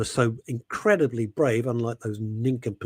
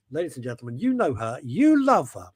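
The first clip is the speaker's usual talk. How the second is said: announcer intro. Pretend. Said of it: "announcing the next guest".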